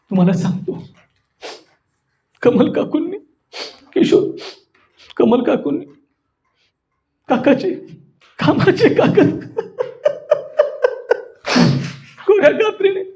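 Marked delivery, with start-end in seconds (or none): 2.4-4.3 high, halting mock sobbing; acted grief. Shown as a demonstration. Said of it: "शोक". 5.2-13.0 high, broken mock wailing; acted grief. Shown as a demonstration. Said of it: "शोक".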